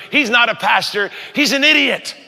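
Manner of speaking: high, scornful put-down; mock indignant lady. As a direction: dismiss him like a churchy know-it-all. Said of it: "the other lady goes".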